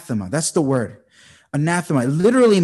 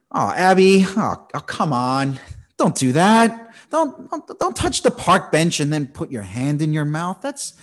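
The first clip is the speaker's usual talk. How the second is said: put-on everyday fond telling-off of a little girl; parent scolding; 4 dB louder than usual. Father to little Abby at the park, mild scolding. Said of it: "I say something like this to her".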